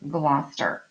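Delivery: Gloucester as GLOSS-ter; correct Gloucester pronunciation. Shown as a demonstration. Teacher warns of other teachers' mistakes, correcting with Gloucester as GLOSS-ter. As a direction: insist on two-syllable GLOSS-ter for Gloucester. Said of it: "hear another teacher pronounce it wrong".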